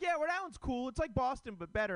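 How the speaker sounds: high, sing-song fake agreement; high squeaky mock praise. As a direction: parrot them like a pushover fan. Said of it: "they're like".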